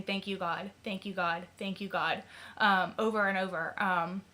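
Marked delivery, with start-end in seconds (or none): 0.0-2.2 softer, murmured repeated thanks; silent prayer retold. Relieved mother thanking God in her head, quietly. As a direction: repeat it softly like a private prayer. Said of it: "over and over in my head saying".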